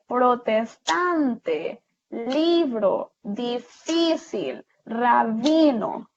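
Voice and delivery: "protestante, libro, difícil, rabino", slow, stretching "tan, li, fí, bi"; stress on penultimate syllables. Shown as a demonstration. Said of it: "en medio es donde llevan su acento". ("protestante, libro, difícil, rabino", lento, con fuerza en la penúltima sílaba)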